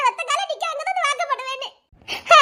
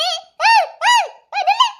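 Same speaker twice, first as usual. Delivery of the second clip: imitating brother; 8 semitones higher, 4 dB louder than usual. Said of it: "அப்படின்னு சொல்லிக்கிட்டே ஓடி வராரு".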